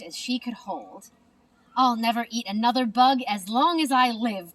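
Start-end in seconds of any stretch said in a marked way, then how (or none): 1.7-4.5 loud happy cheer. Acted. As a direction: cheer with a full mouth. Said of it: "cheered Stellaluna".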